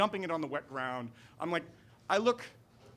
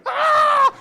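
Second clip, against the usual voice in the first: piercing high shriek, much louder; terrified scream; 14 dB louder than usual. Retold or imitated. Murphy freaking out at the voice in the dark, scream. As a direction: scream like you've seen a ghost. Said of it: "freaked out completely".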